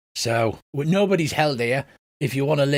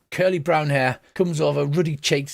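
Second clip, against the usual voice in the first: ordinary delivery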